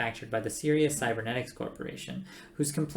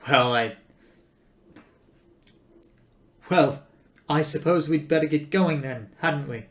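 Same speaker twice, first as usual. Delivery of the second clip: halting, louder false starts; nervous hesitation; 3 semitones higher, 7 dB louder than usual. Acted. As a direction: suggest it awkwardly with long pauses. Arthur awkwardly suggests leaving.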